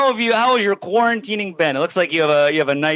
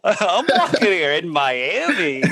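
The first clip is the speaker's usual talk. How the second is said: rapper impression; slower than usual. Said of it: "do your rapper impression".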